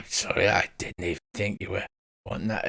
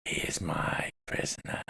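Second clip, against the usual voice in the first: whispering spider creature; 6 semitones higher, 4 dB louder than usual. Acted. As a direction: hiss the words like a spider.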